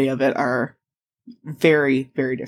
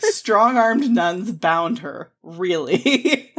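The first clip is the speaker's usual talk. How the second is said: mock incredulous; much slower than usual. Podcaster calling out a suggestive article, mock incredulous. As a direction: draw it out, scandalised and amused.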